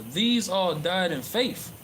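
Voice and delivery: slow, measured Bible reading; scripture reading. Acted. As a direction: read the verse like a preacher, deliberate. Reads scripture aloud in sermon.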